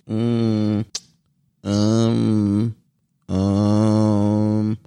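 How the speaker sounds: drawn-out hesitant hums; imitating hesitant old lady. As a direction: mimic an old lady stuck at the menu. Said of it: "All she's saying is".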